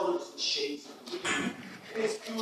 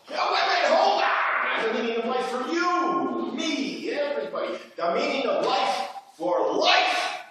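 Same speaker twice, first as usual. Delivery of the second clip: excited revelation; 6 semitones higher than usual. Acted. Actor to his scene partner, breathless with excitement. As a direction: hold them with a giddy big discovery.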